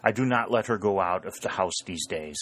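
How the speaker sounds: put-on hushing, German-accented protest; droll German farmer covering for his wife. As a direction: shush them, then plead in a German accent.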